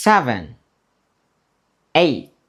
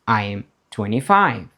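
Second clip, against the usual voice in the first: quick model answer; 2 semitones lower, faster than usual. Shown as a demonstration. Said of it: "Or you can say".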